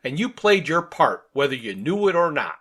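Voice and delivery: lightly voiced grandiloquent character; Dirk. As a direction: make a polite little speech of it. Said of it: "And Dirk is saying".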